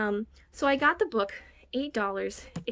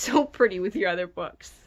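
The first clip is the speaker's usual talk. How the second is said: laughing gush; 3 semitones lower, 4 dB louder than usual. Real, not acted. Promising to return friend's book.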